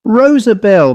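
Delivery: high, calling cry. A narrator's reading. Miss Harper calls out to her doll, crying out high. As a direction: cry the name out, pitched well up. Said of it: "Miss Harper cried out".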